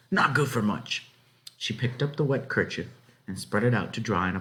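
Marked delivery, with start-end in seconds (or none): 0.1-1.1 higher, matter-of-fact country voice; dismissive farm wife. A narrator's reading. Farm wife dismissing the ruined bread, lightly voiced. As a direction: shrug it off like a practical housewife. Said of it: "she said".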